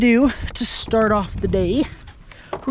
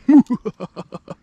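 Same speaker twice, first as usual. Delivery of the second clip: creepy laugh; 2 semitones higher, 5 dB louder than usual. Pretend. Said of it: "That was creepy".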